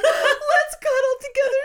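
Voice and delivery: squeaky laugh-through high invitation; laughing high quote. Retold or imitated. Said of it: "And I'm like".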